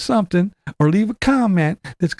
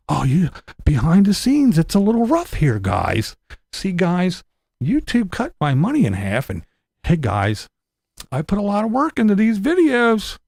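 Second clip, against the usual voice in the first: mocking whine. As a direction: beg the viewers like a sad vlogger. Mocking rival's whiny money plea.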